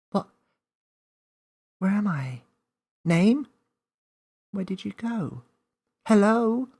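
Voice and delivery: put-on young Millie alone in a strange field calling for Name; lost child calling. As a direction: call out for a friend who vanished.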